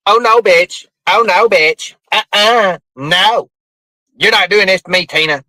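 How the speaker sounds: lightly put-on indignant woman's voice; mock a woman refusing to put up with it; hint of an imitated scolding woman; Mama T. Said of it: "I about got your voice".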